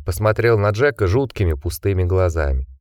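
plain reading voice

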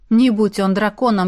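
usual speaking voice

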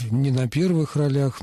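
ролях stressed on the final лях; stress on the ending. Shown as a demonstration. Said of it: "ударение должно быть на окончании".

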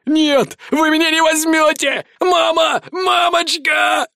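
high, frantic wailing for mommy; high, drawn-out panicked scream. A narrator's reading. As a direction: wail like a cornered kid, dragging out the last word slowly. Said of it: "с диким воплем выскочил модник".

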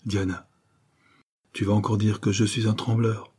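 a touch of unease, held back; hesitant lover, mildly anxious; worried voice. Acted. Morales to his mistress, mildly anxious and hesitant. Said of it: "d'une voix où perçait de l'inquiétude".

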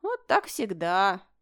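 slow, sighing lament; sighing complaint. A narrator's reading. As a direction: drag it out with a mock sigh. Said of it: "вздохнул Бертон".

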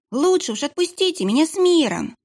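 put-on high, whining child's voice; whimpering boy. Kitchen boy whines back at the monk, high and whimpering. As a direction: whimper it like a scared kid.

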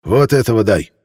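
raspy, creaky demand. Acted. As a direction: rasp out the order. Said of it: "послышался скрипучий голос Вицеллия".

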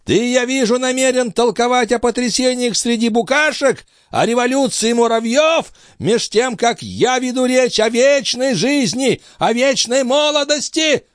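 put-on very high, strained old man's rant; old master ranting. A narrator's reading. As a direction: rail against him with contempt. Althotas rants.

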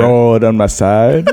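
film noir narrator. Pretend. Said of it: "like film noir".

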